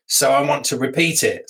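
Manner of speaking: lightly imitated Yorkshire accent; a slip into a mild Yorkshire accent; caller's Yorkshire accent. Satisfied dog breeder rebooking his newspaper advert, in a light Yorkshire accent. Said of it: "So I said I wasn't gonna do the accent, but I did".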